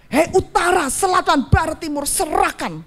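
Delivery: retold command to the four winds; commanding declaration. Retelling her prayer command to north, south, east and west, declaring. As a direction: call out each direction with measured authority. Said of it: "Saya perkatakan begitu ya".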